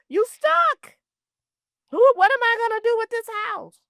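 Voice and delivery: high, loud, panicked cry; an overwhelmed heir crying out over the house; panicked outcry. Retold or imitated. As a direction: throw up your hands in despair and call it out.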